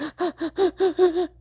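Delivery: sharp high gasp mid-sob; crying gasp. Pretend. Host acting a crying girl for listeners, sharp high gasp. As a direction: suck in air like a sobbing girl. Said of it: "cry where you're like".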